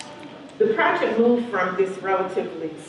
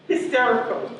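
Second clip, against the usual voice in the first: laughing; 5 semitones higher than usual. Real, not acted.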